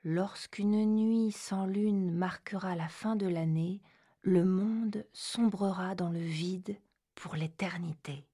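slow hushed prophecy reading; ominous whisper. Acted. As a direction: whisper it like a dark omen. Reads prophecy aloud.

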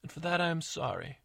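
lightly voiced sincere stepmother; confessing stepmother.

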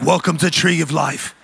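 put-on cool British accent for preaching; British accent, played for laughs; Jason Statham. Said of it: "maybe be like Jason Statham of preaching".

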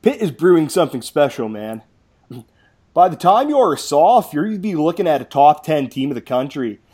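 hyped-up recruiting pitch; quoting a pushy fan. Retold or imitated. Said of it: "and said".

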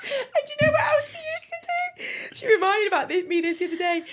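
high, near-crying with laughter; helpless laughing. Real, not acted. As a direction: push on with the story while cracking up. Cracking up telling own story.

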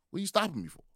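mock indignant protest; indignant guy. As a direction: play the annoyed customer. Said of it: "he's like".

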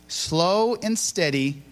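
very slow, left open; drawn-out cue for the crowd; fill-in-the-blank prompt. Shown as a demonstration. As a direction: stretch it out and leave it hanging. Cueing audience to finish phrase.

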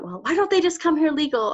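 parroting a dismissive critic; mocking critics. Speaker mimics people who oppose immigration, mock skeptical. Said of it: "when people talk a lot about".

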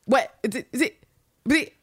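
high, rapid-fire mock interrogation; imitated shouting. Ann Lister pressing for an answer, mock shouting. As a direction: hammer each question out, high and sharp. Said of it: "I get why she's shouting".

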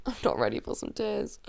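self-mocking laugh through near tears. Real, not acted. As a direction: laugh at yourself while repeating. Repeats it laughing.

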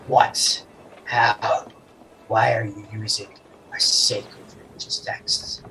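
put-on weird mix of Merfolkian and Common accents; lightly put-on Merfolkian accent, partly unvoiced. Merfolk asks about sacred texts, in a hint of Merfolkian accent. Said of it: "a weird mix between Merfolkian".

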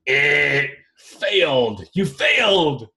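loud, drawn-out mock verdict; mock fail buzzer. Host failing insurance companies on a question, mock fail buzzer. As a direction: buzz them out, then pronounce failure loudly.

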